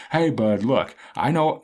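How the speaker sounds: loud impression of a blunt friend; lightly voiced loud buddy interrupting; Toad. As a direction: cut in firmly, a bit loud. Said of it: "this is my best Toad impression".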